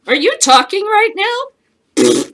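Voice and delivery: high, slow, loud disbelief; mock incredulous. Commander mocks a cowardly soldier, slow scornful disbelief. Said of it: "It's like".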